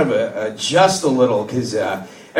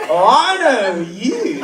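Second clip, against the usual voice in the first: slow, dazed, giggly recognition; stoned slow greeting; 3 semitones higher, much slower than usual. Retold or imitated. Stoned son facing his mom, slow and dazed. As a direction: drag it out, too high to hide it. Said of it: "you're like".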